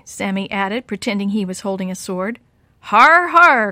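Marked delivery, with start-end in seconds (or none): 2.8-3.7 pirate laugh. Acted. Kids playing pirates.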